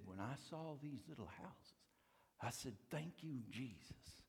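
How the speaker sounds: a hint of Cajun, soft and thankful; hushed grateful Cajun thanks; hushed Cajun accent. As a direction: quietly voice the Cajun caller's relief. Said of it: "with the most beautiful Cajun accent".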